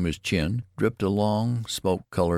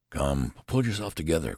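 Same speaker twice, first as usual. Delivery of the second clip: understated nurse's command; a touch of firm briskness. Acted. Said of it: "commanded the nurse".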